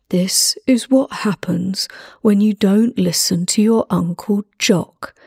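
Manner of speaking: hushed menacing snarl, slow at the end. Acted. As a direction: whisper a threat to the hostage. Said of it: "He snarled".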